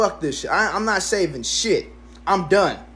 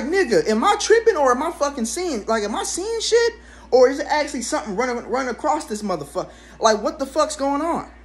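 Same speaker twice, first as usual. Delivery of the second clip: panicked disbelief; 7 semitones higher than usual. Retold or imitated. Retold panic over the mouse.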